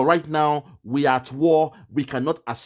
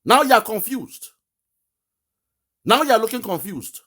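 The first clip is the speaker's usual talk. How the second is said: higher and louder taunt; mocking jab; 5 semitones higher, 3 dB louder than usual. Real, not acted. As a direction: needle the caller, loud and pointed. Mocking the confused caller.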